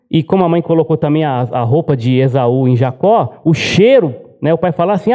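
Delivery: usual speaking voice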